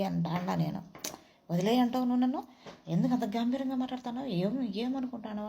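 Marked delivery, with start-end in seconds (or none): 1.5-5.5 high, fast, indignant scolding; mock angry outburst, higher and faster; imitated scolding. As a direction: retell the daughter telling him off, pitched up and rushed. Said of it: "మా రెబ్బిలో తిట్టింది".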